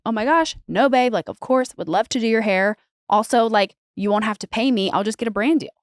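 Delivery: breezy, effusive acceptance; gushing agreement. Retold or imitated. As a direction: imitate a friend gushing yes. Voices hairdresser gushing agreement.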